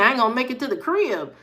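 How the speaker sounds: put-on kid's worried thought. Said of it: "That's probably what he was thinking".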